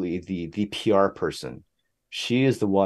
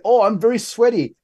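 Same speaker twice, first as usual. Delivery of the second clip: much higher, louder quoted voice; apologetic musician's reply; 14 semitones higher, 7 dB louder than usual. Retold or imitated. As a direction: warn off a hugging fan in a high voice. Voices musician's reply to hug request.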